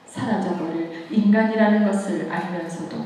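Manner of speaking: usual speaking voice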